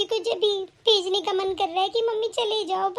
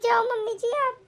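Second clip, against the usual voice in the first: crying. Acted. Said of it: "रोना धोना मत कर अब".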